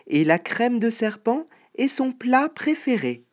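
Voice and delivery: mostly high mouse voice, relishing each detail; boasting mouse. Acted. Mouse warning the snake about the gruffalo, high and knowing.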